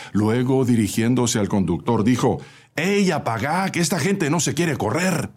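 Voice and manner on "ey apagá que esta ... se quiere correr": calling out. A narrator's reading. Helper calls out to the driver.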